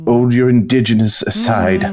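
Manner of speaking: poem recital. Acted. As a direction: recite it like a solemn poet.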